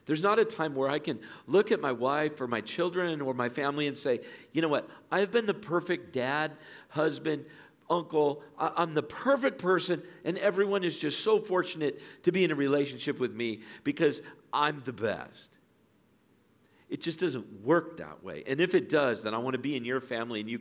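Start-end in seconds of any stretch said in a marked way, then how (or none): 4.5-15.6 louder, higher mock self-praise; mock boasting. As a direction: brag in jest as the perfect family man. Mock boast of perfect dad.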